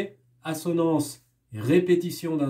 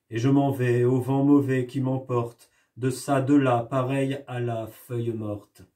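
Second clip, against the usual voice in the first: poem recital. Shown as a demonstration. Teacher reciting a poem to the class, gently measured. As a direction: read the poem with gentle melancholy.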